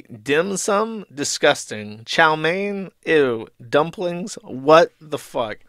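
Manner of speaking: questioning lift on each dish, then dismissive verdict; mock disgust. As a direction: read each word out in mock outrage. Acts disgusted man reading menu words.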